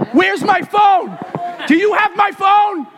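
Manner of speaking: frantic high yell, searching for phone; yelling across the room. Retold or imitated. Acted search, yelling across house.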